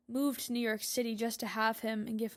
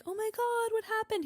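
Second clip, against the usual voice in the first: much higher, startled question; retelling his gasp in a higher voice; mock shocked old man; 10 semitones higher than usual. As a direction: echo the old man's alarm, pitched up. Old man reacts to her mom.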